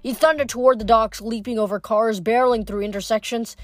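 lively audiobook narration; story narration. A narrator's reading. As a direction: read the chase like an audiobook. Reads novel chapter aloud.

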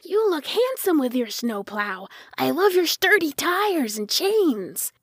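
a hint of an excited kid paying compliments; admiring little boy. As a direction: gush like a small boy, pitch climbing.

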